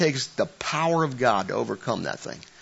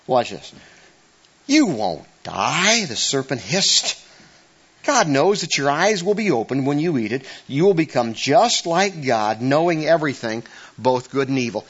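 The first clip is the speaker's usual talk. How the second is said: scripture reading; 2 semitones higher than usual. Acted. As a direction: read it out like scripture. Reads Genesis aloud to congregation.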